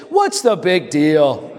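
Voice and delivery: with attitude. Shown as a demonstration. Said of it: "Say it with some attitude".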